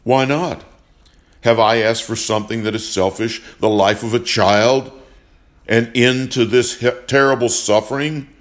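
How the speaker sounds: building from firm to a loud, angry cry; angry retort. Acted. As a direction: push back harder with each question. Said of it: "Johnson shot back".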